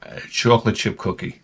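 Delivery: very slow, dragged-out order; deliberately slow. Shown as a demonstration. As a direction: drag every word out to annoy him. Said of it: "this is where I slow it all down".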